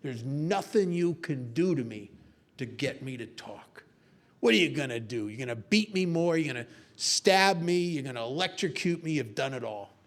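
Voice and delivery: low-pitched tough-guy defiance; lightly acted macho bravado; macho American spy. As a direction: play the unbreakable spy, low and dismissive. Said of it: "this macho American spy says".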